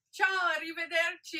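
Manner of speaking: loud, sing-song Italian farewell; Italian goodbye. Shown as a demonstration. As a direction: belt out a cheerful ciao. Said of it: "Say it in Italian".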